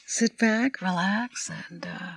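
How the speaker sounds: slow, soothing captain's intercom read; calm the passengers, drawn out; pilot announcement voice. Shown as a demonstration. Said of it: "Oh, she's good".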